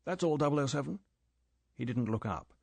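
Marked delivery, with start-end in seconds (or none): 0.0-1.0 curt, final dismissal. Acted. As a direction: end it with no room left. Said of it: "The tone of voice was final".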